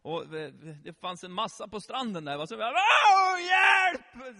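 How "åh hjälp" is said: very high, very loud scream for help; all-out roar. Retold or imitated. Man trapped under a tub at the beach, panicked full-force roar. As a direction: bellow as if drowning. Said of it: "Så vrålade jag allt vad jag kunde".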